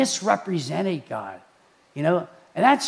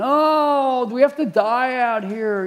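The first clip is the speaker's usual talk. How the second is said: complaining; 5 semitones higher than usual. Acted. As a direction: grumble like a fed-up crowd. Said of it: "The Israelites are complaining".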